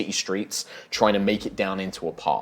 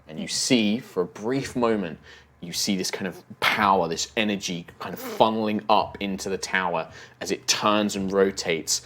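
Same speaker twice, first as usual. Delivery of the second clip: game master narration of a spectacle; measured, vivid storytelling; dramatic scene setting. Acted. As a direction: narrate the blast and collapse with weight. Game master narrates tower's fall.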